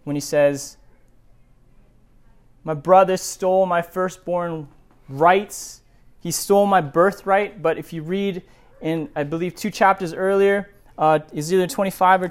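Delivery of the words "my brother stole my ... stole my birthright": helpless victim. Retold or imitated. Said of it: "Esau's playing helpless victim here".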